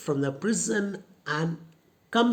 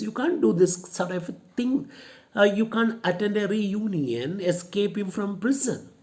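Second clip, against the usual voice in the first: higher, a touch of anger in the rebuke; mildly angry; 5 semitones higher than usual. Shown as a demonstration. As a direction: scold her for coming here. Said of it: "Matilda gets angry with Nora and says".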